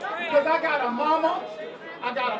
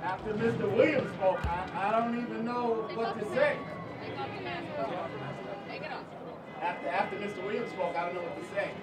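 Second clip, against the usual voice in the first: low, soft, hesitant voice; subdued and under-projected; too quiet to hear; 7 semitones lower, 9 dB quieter than usual. Real, not acted. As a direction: speak softly, at a loss after a moving speech. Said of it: "Speak up, speak up".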